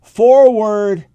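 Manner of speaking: very slow, loud rallying cry; rallying call. Real, not acted. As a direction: call the troops forward, drawn out.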